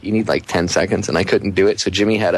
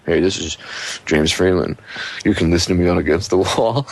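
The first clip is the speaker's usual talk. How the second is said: lower, teasing take on a station ID read; mock radio liner; 3 semitones lower than usual. Co-host teasing J J about his radio liner, mock promo read. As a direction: ham up a buddy's radio promo, pitched lower. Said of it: "liners that I've heard".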